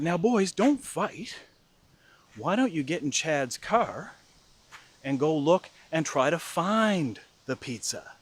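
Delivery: slow, placating mother; smooth things over slowly between squabbling sons; imitating a peacemaking mom; diplomat. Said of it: "trying to be the diplomat".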